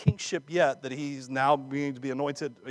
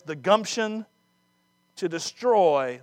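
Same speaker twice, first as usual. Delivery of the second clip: indignant rebuke; 3 semitones higher, 3 dB louder, slower than usual. Acted. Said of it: "That's my paraphrase".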